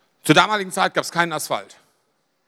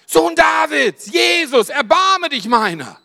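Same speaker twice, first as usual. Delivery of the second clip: crying out high and loud for mercy; a beggar's loud plea for mercy; desperate shout; 7 semitones higher, 5 dB louder, slower than usual. Retold or imitated. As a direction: yell it like a blind beggar begging. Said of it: "fing er an zu schreien".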